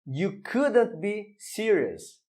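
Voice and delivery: you couldn't be serious read slowly, word by word; teacher's slow demonstration sentence; slow model reading. Shown as a demonstration. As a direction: spell it out slowly for the students. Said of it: "Mais um exemplo".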